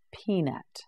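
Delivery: ordinary delivery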